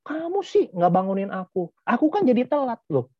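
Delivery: high, whiny complaint; whiny blaming friend. Acted. Friend who came late complains to you, high and whiny. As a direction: pout and blame the other for being late.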